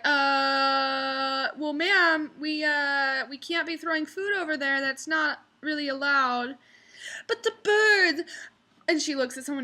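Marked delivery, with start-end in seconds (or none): 0.0-6.6 imitating hesitant waiter. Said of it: "And he's like". 7.3-8.3 high, louder, slow pleading whine; mock drunk whine. Drunk woman pleading with the waiter, high slow whine.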